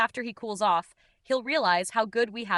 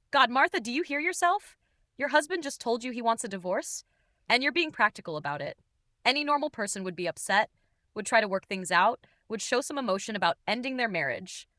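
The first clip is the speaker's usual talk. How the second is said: strained, raised pitch, pushed out. Acted. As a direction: let the voice strain under the hurt. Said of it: "His voice is getting strained again".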